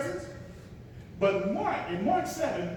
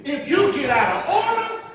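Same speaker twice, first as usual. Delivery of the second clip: mock strict usher; 3 semitones higher, 5 dB louder than usual. Mock usher scolding worshippers about rules, loud. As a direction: lay down the church rules, hammed-up.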